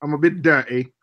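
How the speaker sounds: "dirty" said without its T; dropped T. Shown as a demonstration. Learner repeating the trick for friends, "dirty" minus its T. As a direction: practise the Cockney glottal T in "dirty". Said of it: "just drop the T's".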